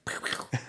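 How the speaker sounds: quick playful "pew pew" noises; finger-gun noises. Pretend. Co-host playing along with the finger guns joke, playful gun noises. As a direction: imitate little pistols with your mouth.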